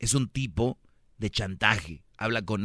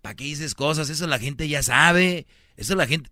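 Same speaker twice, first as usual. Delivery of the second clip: mock caller complaint; 5 semitones higher, 3 dB louder than usual. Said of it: "me llama aquí y me dice".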